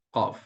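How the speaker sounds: a deep-throated, emphatic "qaf"; thick tafkhim letter. Shown as a demonstration. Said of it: "huruf yang tebal".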